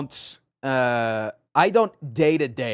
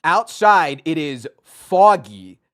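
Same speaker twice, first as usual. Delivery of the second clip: slow; 3 semitones higher, 7 dB louder, much slower than usual. Shown as a demonstration. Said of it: "with a northern accent".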